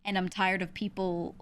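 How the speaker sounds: normal talking voice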